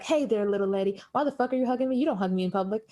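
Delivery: lightly voiced redneck accent; a hint of country accent, not very strong; Ted's redneck accent. Ted scolding a woman for hugging him, mild redneck accent. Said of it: "Ted's the one with the accent".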